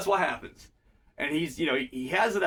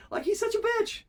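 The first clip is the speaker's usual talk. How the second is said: squeaky exasperated disbelief, pitched way up; mock outrage about a whiny character; exasperated high rant; 12 semitones higher than usual. Real, not acted. Podcaster ranting about a whiny character, pitched way up in disbelief.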